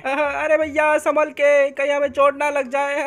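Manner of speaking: put-on high childlike sidekick voice; Munna's kid voice. Munna worried about getting hurt.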